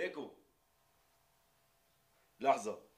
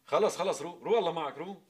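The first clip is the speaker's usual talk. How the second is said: laughing; 8 semitones higher, 12 dB louder than usual. Acted. Laughing sending him off.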